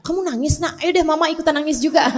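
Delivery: lightly mocking a mother who joins the crying; half-joking example of the wrong way; wrong way, said a little quickly; mock wrong reply. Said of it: "Nggak gitu".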